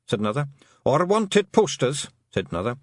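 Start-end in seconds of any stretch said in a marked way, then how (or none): 0.8-2.1 high, slow Scottish clansman; dread-filled Scots voice; worried Feegle. Acted. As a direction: intone the horror item slowly. Another Feegle adds a dreaded item.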